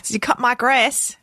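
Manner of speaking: lightly mocked Australian accent. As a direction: ask it as a pretend Aussie. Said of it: "wonderful accents like that".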